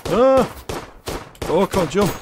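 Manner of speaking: high frantic shouts; panicked yelling. Real, not acted. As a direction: yelp in alarm, losing control. Caught in crossfire, panicking.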